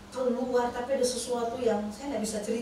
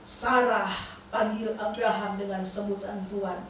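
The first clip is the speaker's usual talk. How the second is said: lightly voiced low divine instruction; voice of God; 3 semitones lower than usual. The voice returns to call Sarah, lightly voiced low command. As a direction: quote a heavenly command, lightly acted and low. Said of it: "suara itu kembali bersuara".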